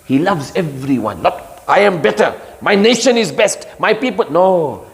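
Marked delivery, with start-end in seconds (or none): 1.7-4.3 arrogant boast. Retold or imitated. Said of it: "that is shaitan's way".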